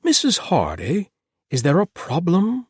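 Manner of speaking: a jumpy host questioning his housekeeper, high and anxious; Thomas voice. A narrator's reading.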